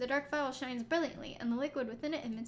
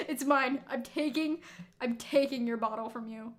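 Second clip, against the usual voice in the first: greedy claim. Shown as a demonstration. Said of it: "I'll do one more".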